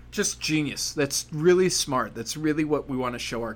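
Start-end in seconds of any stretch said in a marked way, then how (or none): 0.1-2.1 slow dry sarcasm, stretched out; sarcastic. Real, not acted. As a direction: drag it out sarcastically. Sarcastic aside.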